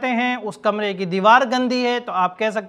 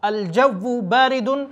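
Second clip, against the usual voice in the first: slow model phrase; slower than usual. Shown as a demonstration. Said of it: "آپ کہہ سکتے ہیں کہ موسم ٹھنڈا ہے".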